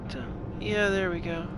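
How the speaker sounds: normal talking voice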